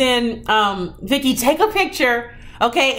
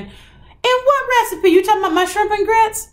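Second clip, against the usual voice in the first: mock disbelief; 11 semitones higher than usual. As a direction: play it like he can't believe it. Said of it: "He said".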